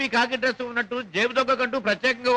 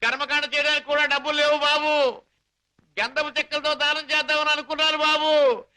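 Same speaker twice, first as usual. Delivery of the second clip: mock grief; 3 semitones higher than usual. Con man's fake mourning plea.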